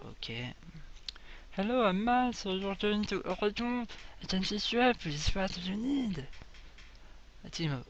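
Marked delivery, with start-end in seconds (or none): 1.6-6.3 shopkeeper Matt. Acted. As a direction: greet the traveller like a cheery shopkeeper. Voices shopkeeper Matt from game.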